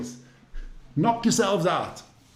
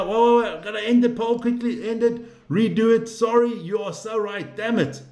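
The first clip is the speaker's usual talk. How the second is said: excited; 3 semitones higher than usual. Real, not acted. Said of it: "I got all excited there".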